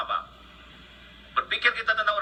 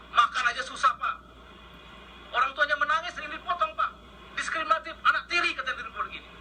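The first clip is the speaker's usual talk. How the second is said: close to tears; 6 semitones higher, 5 dB quieter than usual. Real, not acted. Commission chair pleading with the minister, close to tears. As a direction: voice pitched high and softer, holding back tears. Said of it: "saya menangis, Pak. Mau nangis".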